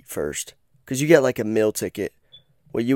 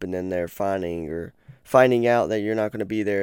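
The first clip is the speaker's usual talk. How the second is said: stumbling over his words; tongue trips and restarts; stutter. Real, not acted. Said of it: "Sorry, I didn't mean to stutter".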